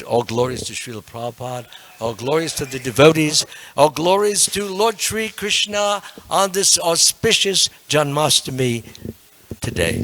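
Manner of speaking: loud, measured devotional proclamation; closing invocation. Real, not acted. Teacher closing class with glories, loud devotional invocation.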